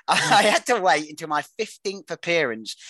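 laughing through the line at the long clue; chuckling while reading on. Real, not acted. Host amused by his own overlong clue, laughing. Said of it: "It's going on, this one".

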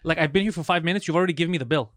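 retold angry complaint. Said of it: "I would get super mad".

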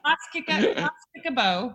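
fumbled Stoke dialect through laughter; Stoke attempt. Shown as a demonstration. Host tries to repeat the saying, laughing Stoke attempt. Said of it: "I can't say it".

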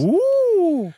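high squealing ooh with a laugh; delighted ooh. Real, not acted. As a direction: squeal with glee. Delighted squeal at two ideas.

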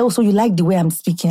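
put-on thick Nigerian accent, retelling; movie Nigerian accent. Retelling a reply to an admirer, movie Nigerian accent. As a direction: answer him in a film-style Nigerian accent. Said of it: "I was doing that movies Nigerian accent".

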